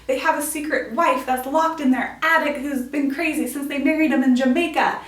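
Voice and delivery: loud, hammed-up dramatic protest; mock-dramatic outburst; super dramatic objection. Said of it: "something super dramatic like".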